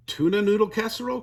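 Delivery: high, loud, quick motherly correction; correcting. A narrator's reading. Mama fixing her daughter's mistake, correcting. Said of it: "corrected Mama".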